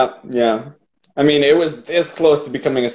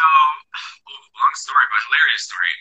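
whispering; 4 semitones higher than usual. Real, not acted. Quick hushed aside.

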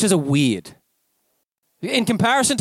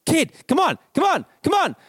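put-on calling out to a kid; 9 semitones higher than usual. Speaker calling to a girl on the roadside, high call. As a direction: call her over, raised high. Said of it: "I'm yelling".

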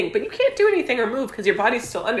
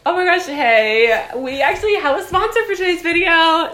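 mock sponsor read; 8 semitones higher, 7 dB louder than usual.

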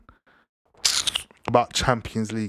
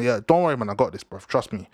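imitating Mane; 4 semitones lower than usual. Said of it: "He went to Klopp".

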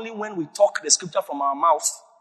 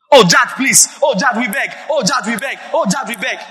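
mock pleading lawyer; 3 semitones higher than usual. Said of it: "Don't you think something's wrong with him?".

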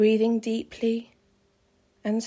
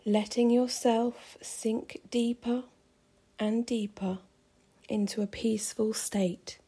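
soft spa whisper; 4 dB quieter than usual. Acted. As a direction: whisper it as they drift off.

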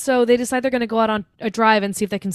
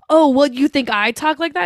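higher-pitched mock offended retort; retold indignation; 4 semitones higher, 3 dB louder than usual. Annie answering Paul about swearing, mock indignant. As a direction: challenge him, mildly hammed up. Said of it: "pissed off about it".

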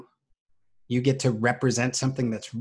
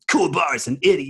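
higher, louder anime character voice; Hiei voice; 5 semitones higher, 6 dB louder than usual. Retold or imitated. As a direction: snap it out as the anime hero Hiei. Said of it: "I was being Hiei or whatever".

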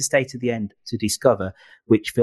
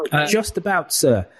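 muffled, as if underwater; muffled through mask; 4 semitones higher than usual. Real, not acted. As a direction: speak through a face mask. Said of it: "Sounds like you're slightly underwater".

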